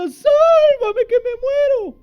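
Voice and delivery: very high, loud hammed-up cry for help; mock desperate scream. Preacher hamming up Peter's scream, high and loud. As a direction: overplay a drowning man screaming. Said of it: "Y grita".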